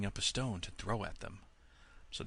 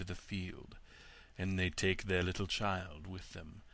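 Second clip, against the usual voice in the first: sly wolf; 2 semitones lower, 3 dB quieter than usual. Acted. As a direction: coax like a crafty wolf. Wolf voiced, low and slow.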